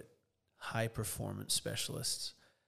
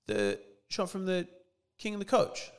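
excited clerk; 7 semitones higher, 4 dB louder than usual. Retold or imitated. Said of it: "he goes".

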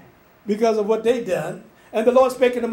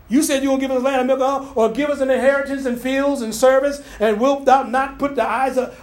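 complaining Israelites; 3 semitones higher than usual. Retold or imitated. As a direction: play the grumbling crowd talking back. People defying Moses, voiced complaint.

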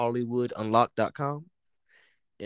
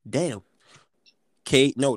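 ordinary talk

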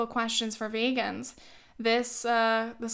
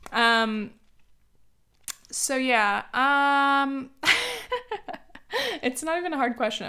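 hiccuping between words; catching a hiccup mid-sentence; 4 semitones higher, 4 dB louder than usual. Real, not acted. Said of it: "I have hiccups now".

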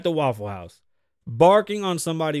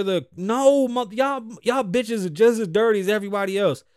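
angry rant; 3 semitones higher, 3 dB louder than usual. Real, not acted. Ranting at fact checkers.

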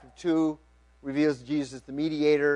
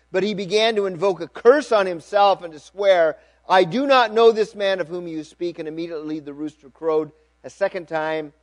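raised, emphatic Bible reading; scripture reading; 3 semitones higher, 7 dB louder than usual. A narrator's reading. Preacher reading Peter's denial to the congregation, emphatic narration. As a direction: read the account out with projection.

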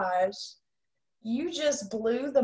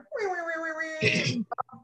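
mock airhorn sound; 7 semitones higher, 4 dB louder than usual. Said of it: "some sort of".

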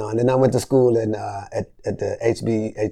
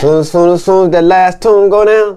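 hurried; 8 semitones higher, 10 dB louder, slower than usual. Real, not acted. Excited retelling of tour rush.

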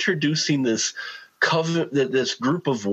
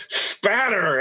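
Sorting Hat voice; 7 semitones higher than usual. Pretend. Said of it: "the Sorting Hat going".

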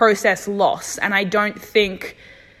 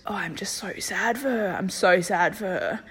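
softer, close to tears; getting emotional; 7 dB quieter than usual. Real, not acted. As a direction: let the sadness pull the voice down. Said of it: "wow, I'm getting emotional".

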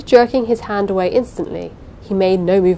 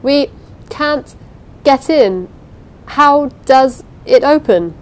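loud, higher call through the wall; shouting; 7 semitones higher, 7 dB louder, slower than usual. A narrator's reading. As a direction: shout it from outside the room. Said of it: "someone shouted outside".

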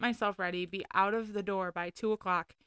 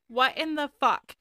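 shocked outburst; 6 semitones higher, 7 dB louder than usual. Retold or imitated. Shock as police arrive.

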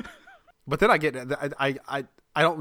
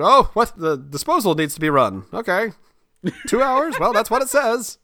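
higher, louder feigned innocence; mock defensive; 9 semitones higher, 6 dB louder than usual. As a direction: dodge the talk with hammed-up surprise. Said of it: "I just get defensive".

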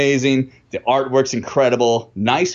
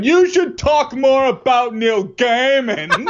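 high, slow, croaky sick voice; sick wife voice; 12 semitones higher, slower than usual. Retold or imitated. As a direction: mimic your sick partner. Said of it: "that's what she sounds like when she's sick".

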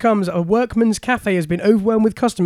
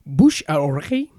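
French accent; 3 semitones lower than usual. Real, not acted. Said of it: "Nice French accent".

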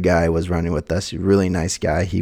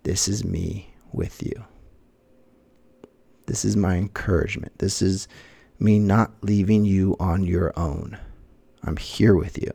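gentle divine voice. Retold or imitated. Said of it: "I feel the Lord's voice say".

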